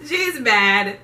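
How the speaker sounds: slow words squeezed out through laughter; laughing. Real, not acted. Laughing while telling.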